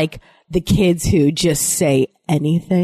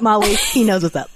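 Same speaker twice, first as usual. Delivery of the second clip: laughing shout. Real, not acted.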